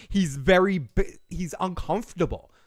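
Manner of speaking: slight Boston accent slipping out; Boston accent coming through. Real, not acted. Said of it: "my Boston accent came out there".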